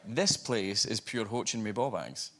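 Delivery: broad Scottish, slow and deliberate; Scottish phrase. Shown as a demonstration. Actor testing a Scottish phrase on the host, slow broad Scottish. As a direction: deliver it slowly in thick Scottish. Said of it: "I tried a Scottish phrase on her".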